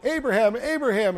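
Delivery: calling out. Retold or imitated. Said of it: "and it cries out".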